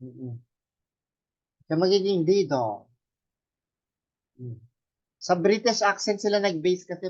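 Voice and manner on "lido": "lido" as LEE-dah, no r; A-sound ending. Shown as a demonstration. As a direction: finish "lido" on an open ah. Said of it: "Mas malapit yan sa A".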